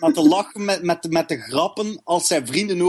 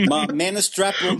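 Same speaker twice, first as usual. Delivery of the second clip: laughing; 3 semitones higher, slower than usual. Real, not acted. Says it while laughing.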